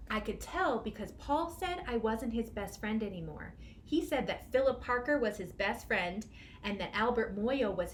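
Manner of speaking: lively storybook reading; expressive picture book narration; reading to children. A narrator's reading. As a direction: read it like a children's story time. Reads picture book aloud.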